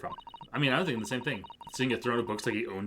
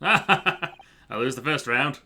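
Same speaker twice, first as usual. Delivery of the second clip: loud, boastful Australian detective; Australian accent; 6 dB louder, much slower than usual. Acted. Detective boasts of his recollection, loud Australian accent. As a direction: declaim grandly in a put-on Australian accent. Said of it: "Time to get my Australian accent in".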